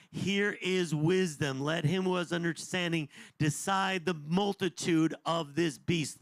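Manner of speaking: slow, weighty reading of the verse; scripture reading. Acted. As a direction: read it out with gravity.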